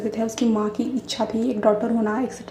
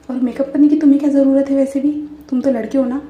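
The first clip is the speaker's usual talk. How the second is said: baffled outburst; 3 semitones higher, 10 dB louder than usual. Acted. Friend baffled by makeup request.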